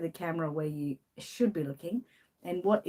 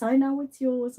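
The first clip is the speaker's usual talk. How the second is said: louder first take, I stressed; firm reply; 6 semitones higher, 5 dB louder than usual. Real, not acted. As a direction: say it loud, stressing "I". Answering the pet, first take.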